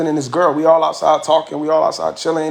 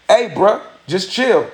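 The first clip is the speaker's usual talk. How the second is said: mock brush-off at a higher pitch; dismissive stranger; 4 semitones higher, much slower than usual. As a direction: wave him off like a stranger. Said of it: "And the way he said it".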